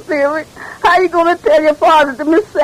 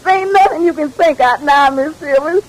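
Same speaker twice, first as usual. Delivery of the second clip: tearful plea. Acted. Maid pleading with frozen mistress.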